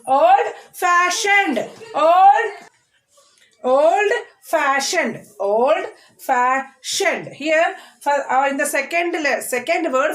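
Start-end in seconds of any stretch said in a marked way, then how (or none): 0.1-7.3 put-on old fashioned very slowly, old drawn out, fash stressed; deliberate model of old fashioned, weight on fash. Shown as a demonstration. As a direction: stretch old upward, then stress fash and fall on fashioned. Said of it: "First syllable of the second word".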